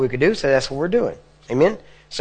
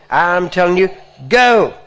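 wrong way, just yelling; 5 semitones higher, 6 dB louder, slower than usual. Shown as a demonstration. Preacher showing another wrong, yelled command, loud. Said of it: "You don't say".

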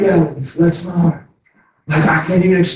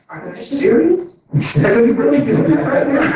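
high, amused are you serious; playful high disbelief; laughing challenge; 11 semitones higher than usual. Retold or imitated. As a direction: tease them through a laugh. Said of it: "I just tap them".

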